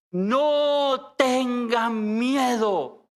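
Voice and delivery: very slow, tender and steady; gentle reassurance. Acted. Jesus reassures the disciples, very slow and gentle. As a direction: stretch each word out to soothe them. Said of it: "la voz suave del Señor".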